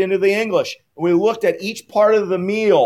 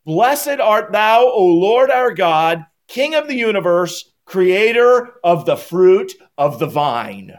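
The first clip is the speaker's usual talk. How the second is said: slow, solemn liturgical chant, a little louder; measured, reverent recitation; recited blessing; 3 dB louder, slower than usual. Shown as a demonstration. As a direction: intone it like a prayer over the cup. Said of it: "the blessing is this".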